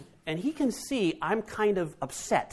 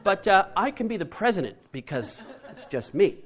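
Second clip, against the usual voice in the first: put-on child's voice; 5 semitones higher than usual. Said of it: "He said".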